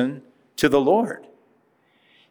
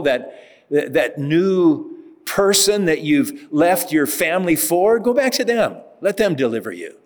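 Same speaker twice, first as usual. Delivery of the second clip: God stern and dismissive; 2 semitones higher than usual. Retold or imitated. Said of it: "God says".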